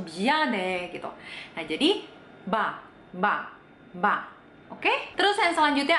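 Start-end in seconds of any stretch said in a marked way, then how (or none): 0.0-0.5 "bian" starting as B, no hum; M without nasality. Shown as a demonstration. Teacher imitating how Koreans say it, denasalized M. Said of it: "m-nya tuh nggak ada". 2.4-4.3 "ba" with no humming M before it; denasalized M. Shown as a demonstration. Teacher drilling the Korean letter, denasalized M. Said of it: "m-nya tuh nggak ada, jadinya langsung".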